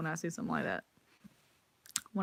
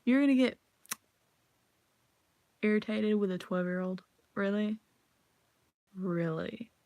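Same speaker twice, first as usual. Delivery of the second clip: imitating incredulous scolding. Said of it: "I'm just like".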